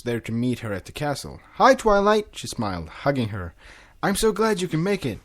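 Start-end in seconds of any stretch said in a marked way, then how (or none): 1.5-2.3 Cadance voice. Acted. Cadance greeting, voiced character. 4.0-5.2 Cadance voice. Acted. Cadance greets Twilight.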